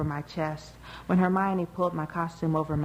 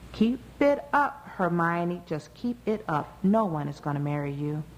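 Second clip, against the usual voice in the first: scolding. Acted. Mother warning Hermione to keep it up, scolding.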